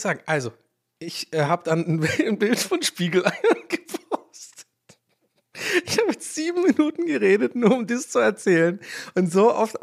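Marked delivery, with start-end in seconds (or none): 2.1-4.7 giggling, high and slow; can barely get the words out for laughing; laughing through it. Real, not acted. Podcaster cracking up at his own egg story, laughing. 5.8-9.8 still laughing. Real, not acted. Laughing at own story.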